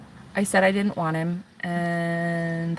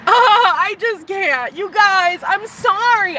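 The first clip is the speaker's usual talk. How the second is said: giggling; 12 semitones higher, 7 dB louder, much slower than usual. Real, not acted. Giggling over her crush.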